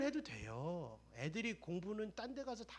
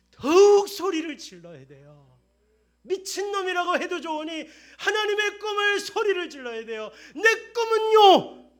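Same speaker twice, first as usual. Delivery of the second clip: louder, higher, shouting the call to dream; full-force preaching; 11 semitones higher, 20 dB louder than usual. Acted. Pastor urging the church to shout God's dream, full-force preaching. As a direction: preach it out with a laugh at the top.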